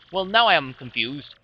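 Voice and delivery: lightly voiced pompous treasure hunter; theatrical Flavio. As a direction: muse grandly, savoring every thought of treasure. Plays Flavio musing about treasure.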